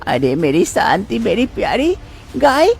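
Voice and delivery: tender coaxing. Acted. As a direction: coo lovingly to the cow. Mother-in-law pampering the cow.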